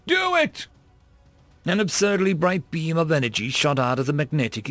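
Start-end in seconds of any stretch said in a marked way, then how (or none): 0.1-0.7 high-pitched excited command, held back in volume; acted yell. A narrator's reading. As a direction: yell the order, pitch leaping up. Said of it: "before yelling".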